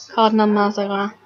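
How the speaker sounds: apologetic attempt at a French accent; shitty French accent. Real, not acted. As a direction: say the name in an awkward French accent. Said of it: "without some shitty French accent".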